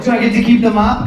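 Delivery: high and quick, hopeful; mock eager question. Customer asking the club to keep the mop, high and quick. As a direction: fire it off hopefully.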